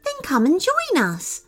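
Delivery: high, friendly fairy invitation; warm smile. A narrator's reading. Fairy inviting a left-out unicorn, warm smile. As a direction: invite through a warm smile, pitched well up. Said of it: "said the fairy with a warm smile".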